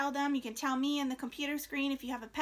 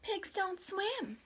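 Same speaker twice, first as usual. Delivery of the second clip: higher, slow pig voice; pig's voice; 6 semitones higher, much slower than usual. Acted. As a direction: speak as the stubborn pig, slowly. Teacher voices the pig's line.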